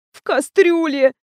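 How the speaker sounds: faint voice. A narrator's reading. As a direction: say it as if about to faint. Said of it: "обморочным голосом ответила Лиза". (обморочным голосом)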